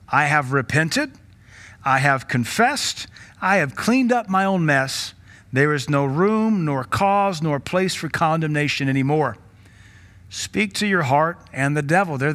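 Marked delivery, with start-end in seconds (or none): 0.1-9.4 firm declaration. Pretend. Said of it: "Remind your mind and the devil".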